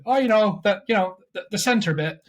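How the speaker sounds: put-on hesitant, makeshift Irish accent. Cornered on whereabouts in Dublin, faltering put-on Irish. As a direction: stall in a fake Irish accent. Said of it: "Drew had to speak Irish".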